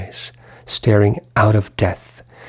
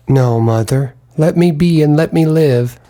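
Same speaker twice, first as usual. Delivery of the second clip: desperate plea; 4 semitones higher than usual. Acted. Pleading with mother's ghost.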